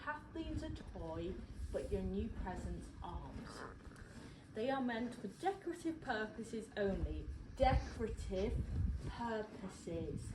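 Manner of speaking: slow, spelled-out warning; mock-stern, over-careful enunciation; patronising. Real, not acted. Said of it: "I know I'm being a bit patronising".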